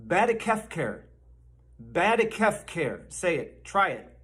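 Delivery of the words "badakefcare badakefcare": "Badakefcare" modeled as one word; teaching pronunciation. Shown as a demonstration. Mock teacher introducing a Bidenese word, careful pronunciation demo. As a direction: say "Badakefcare" carefully, with a falling end. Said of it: "the next word we've got is".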